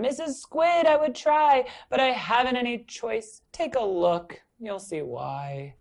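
protest, then sink away; fish replying. Acted. Fish telling the squid he has no choice. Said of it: "says the fish to his friend".

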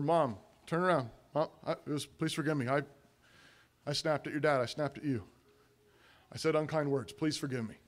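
soft, low confession; humble apology. Acted. Parent confesses to spouse and kids before church, soft and contrite. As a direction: apologise quietly, letting each admission drop.

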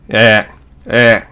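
え mouth shape while voicing 'ah'; American A. Shown as a demonstration. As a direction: say え as a long in-between 'æ'. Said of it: "声を出すのはあみたいな".

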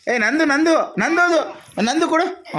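high, mock-greedy "mine, mine, give it"; a lightly hammed-up childish claim, pitched high; playful grabbing. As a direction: tease the child by pretending to snatch the coins back. Playfully grabbing the money back.

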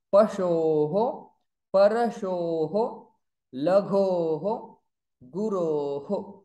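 Shishoho, Parashoho, each ending in a clear ho; visarga ho drill. Shown as a demonstration. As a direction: echo the o after the visarga as ho. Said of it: "now I am saying Pashoho". (recite o words, each ending in ho)

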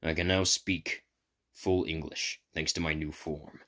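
slow, low robotic voice. Acted. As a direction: speak like a machine, evenly. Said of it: "replied with a robotic voice".

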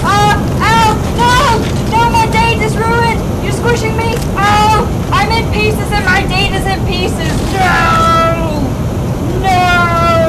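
high, loud, hammed-up yelling; mock agonized screaming. Player crushed along with his date, mock agonized screaming. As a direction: wail in overdone horror with long cries.

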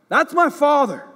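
loud, high cry to a father. Pretend. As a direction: call out from the heart, full voice. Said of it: "For you to, to cry out".

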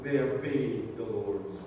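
measured, emphatic scripture reading. Acted. Preacher reading the cloud passage to the congregation, emphatic scripture reading. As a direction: read it out phrase by phrase to the congregation.

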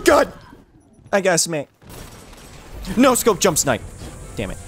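normal talking voice

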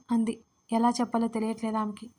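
ordinary delivery, nothing marked

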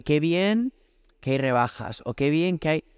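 pleased exclaim with bien rising; a pleased "qué bien" over sales, bien lifted; worldly delight. Retold or imitated. Preacher mocks shoppers, "bien" rising pleased. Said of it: "pues la gente dice".

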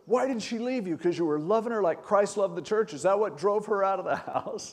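high-pitched, imitated pointed questioning; sarcastic grilling. Pastor confronts a husband whose wife left, sarcastic. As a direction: grill him with mock-innocent sarcasm.

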